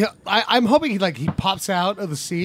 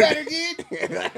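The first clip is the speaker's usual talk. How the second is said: hero shout; 7 semitones higher, 3 dB quieter, slower than usual. Acted. Echoing hero call.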